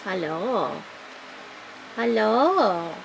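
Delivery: drawn-out hello with a falling lilt; sing-song pet greeting; cooing to a pet. Real, not acted. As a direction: greet a curious little animal.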